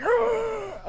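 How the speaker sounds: high raging battle cry; sudden high rage yell; rage roar. Acted. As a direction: howl with fury before the match. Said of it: "she's just like".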